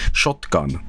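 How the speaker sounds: "Shotgun" with a clear break between shot and gun; Swedish shotgun. Shown as a demonstration. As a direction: say "Shotgun" as two parts. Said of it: "there's a hyphen between shot and gun".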